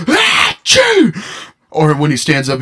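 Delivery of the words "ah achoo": high, exaggerated sneeze; dad's big sneeze. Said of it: "he goes".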